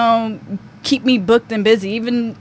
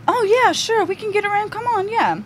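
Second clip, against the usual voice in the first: high, breezy fake-friendly voice; high mock-sweet audition lady; imitating the woman in charge; 10 semitones higher than usual. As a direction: mimic her breezy brush-off, pitched way up. Imitating the woman who ran auditions.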